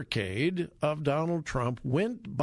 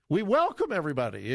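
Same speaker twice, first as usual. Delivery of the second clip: mocking liberal mantra; faster than usual. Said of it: "the mantra of the liberal left".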